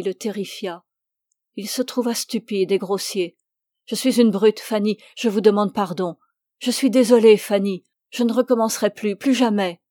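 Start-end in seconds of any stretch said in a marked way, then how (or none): 3.9-9.8 excuses penaudes. Acted. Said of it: "Il était penaud, si navré".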